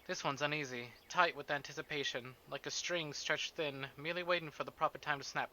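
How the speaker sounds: steady, measured reading of game text; a lightly voiced novel narration; story narration. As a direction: read the prose like a novel's narrator, unhurried.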